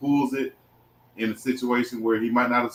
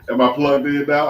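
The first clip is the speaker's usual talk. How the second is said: laughing; 4 semitones higher, 5 dB louder than usual. Real, not acted. Laughing over mic trouble.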